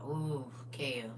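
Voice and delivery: breathy whispered aside. Real, not acted. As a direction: drop to a whisper for Kev. Reacting softly to a comment.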